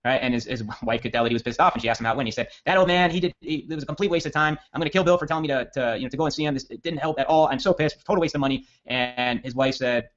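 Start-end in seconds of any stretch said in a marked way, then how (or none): 2.6-8.6 raised pitch, angry rant; angry husband. Retold or imitated. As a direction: vent like a fed-up husband back home.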